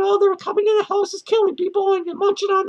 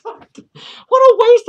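drawn-out, louder groan of disgust; exasperated; 3 semitones higher, 9 dB louder, much slower than usual. Real, not acted. Ranting to viewers about wasted money, exasperated. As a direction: stretch it out in disgust. Exasperated rant over bad movie.

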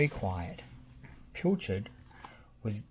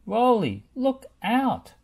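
higher, louder call to look out; warning shout; 9 semitones higher, 7 dB louder, slower than usual. A narrator's reading. Bob warns Rolly about hedgehogs, shouting. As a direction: shout a warning across the site. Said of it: "he gasped".

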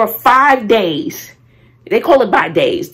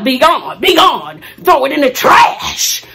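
forceful banishing shout; 3 semitones higher, 4 dB louder, slower than usual. Real, not acted. Casting out the negativity.

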